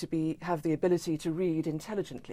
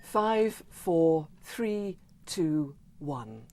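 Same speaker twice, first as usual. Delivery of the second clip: countdown; much slower than usual. Shown as a demonstration. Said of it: "would you please count us down".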